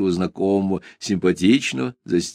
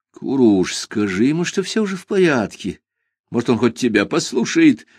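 flustered; 3 semitones higher than usual. Acted. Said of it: "растерянно попросил я".

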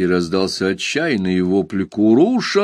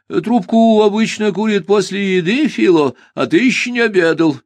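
strict, high, louder scolding; stern; 11 semitones higher, 5 dB louder than usual. Acted. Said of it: "строго сказал он".

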